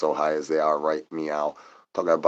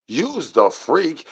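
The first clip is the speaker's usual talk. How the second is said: squeaky high; 8 semitones higher, much slower than usual. Acted.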